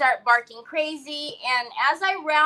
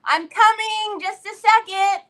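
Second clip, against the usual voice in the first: high, raised calling-out; imitating a hollered reply; retold yell; 7 semitones higher, 3 dB louder than usual. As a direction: call out as if across the house. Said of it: "I yell".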